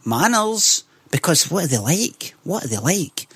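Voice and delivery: lightly mimicked Newcastle accent, disapproving; imitated Newcastle woman. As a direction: tut at them in a mock Newcastle accent. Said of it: "Like that".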